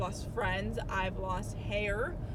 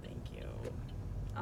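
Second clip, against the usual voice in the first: whispered thanks; 10 dB quieter than usual. Real, not acted. Aside to someone off camera.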